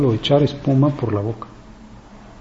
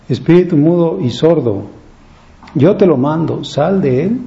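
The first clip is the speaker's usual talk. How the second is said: raised, higher command to cast out; commanding exorcism; 4 semitones higher, 3 dB louder than usual. Acted. Jesus orders the mute spirit out, raised commanding voice.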